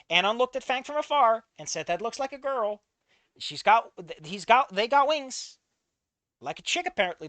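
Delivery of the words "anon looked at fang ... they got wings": indignant loud fic read. Acted. Reading the fic aloud indignantly.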